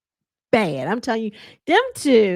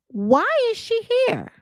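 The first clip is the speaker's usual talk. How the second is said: high whispered jab; 13 semitones higher than usual. Retold or imitated. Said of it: "Toya finally pipes up and says".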